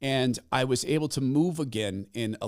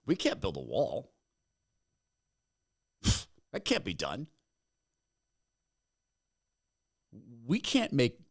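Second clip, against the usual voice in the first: Trump impression. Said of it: "The guy who showed up was Trump".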